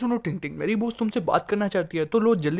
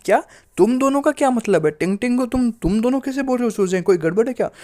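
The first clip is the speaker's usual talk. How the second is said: sharp, higher, louder questioning; suspicious surprise; 5 semitones higher, 4 dB louder than usual. Acted. Boss catching her employee's slip, surprised and suspicious. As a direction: catch him out, taken aback and suspicious.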